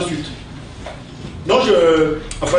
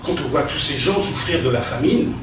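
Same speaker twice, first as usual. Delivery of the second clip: theatrical verse recitation, with pauses; hammy stage actor; 2 semitones higher than usual. Acted. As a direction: declaim each insult like Cyrano. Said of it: "utiliser son style".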